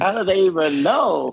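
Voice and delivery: baffled disbelief. Retold or imitated. Baffled by fans' new Gerber posts.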